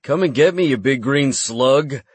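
high, mocking taunt. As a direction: taunt the monster. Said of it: "I taunted".

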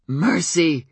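loud frantic call of Mercy!; demanding, half-crazed shout. Acted. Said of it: "demanding and half-crazed".

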